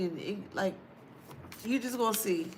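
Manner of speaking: normal talking voice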